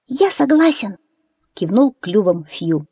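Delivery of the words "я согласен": put-on peeping baby chick. A narrator's reading. Chick Fyu agrees.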